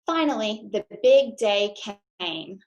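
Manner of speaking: put-on lively storybook read-aloud for kids; reading to children. A narrator's reading. Teacher reading a picture book to her class, lively storytime voice. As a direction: read it bright and bouncy to the class.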